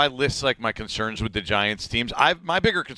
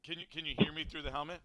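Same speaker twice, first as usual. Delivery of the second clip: muffled inside a football helmet; muffled through helmet; 6 semitones higher, 13 dB quieter, faster than usual. Real, not acted. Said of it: "No, not really".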